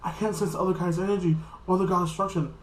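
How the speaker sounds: lightly mocked freak-out. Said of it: "Supreme Kai was all freaking out".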